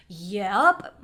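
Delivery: loud one-word imitation of annoyance; curt reply. Huffing driver answering about the window, curt. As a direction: punch out a short, peeved agreement.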